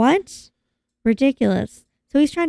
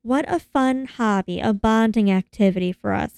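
coaxing; 4 semitones higher, 3 dB quieter than usual. Retold or imitated. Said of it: "She's like".

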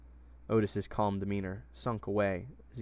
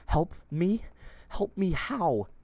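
incredulous question; 9 semitones higher, 4 dB louder, slower than usual. A narrator's reading. Captive questions her rescuers.

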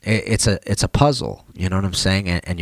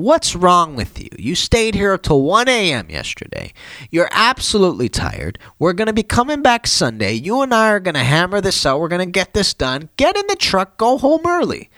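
pitched much higher, mock angry dad lecturing; retold dad scolding; 10 semitones higher than usual. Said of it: "Dad ended up blasting me".

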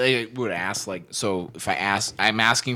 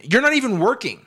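laughing; 11 semitones higher, 4 dB louder than usual. Real, not acted. Laughing mock outrage.

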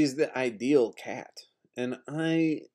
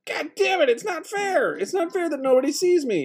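very high, voice breaking into a laugh-cry. Real, not acted. Protesting that nobody sees him, breaking into a high laugh-cry. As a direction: let it crack between laughing and crying.

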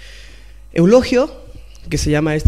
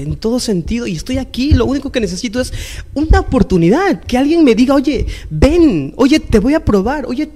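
anguished crying plea; 3 semitones higher than usual. Retold or imitated. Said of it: "Empecé a llorar, con mucha ira".

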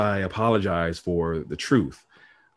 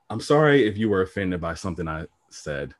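fake apology; 2 semitones lower than usual. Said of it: "I kinda gave one of those horrible apologies".

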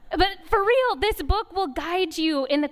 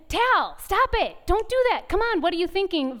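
higher, impatient reprimand; snap-reaction mom telling off her son; quick scolding; 6 semitones higher than usual. Retold or imitated.

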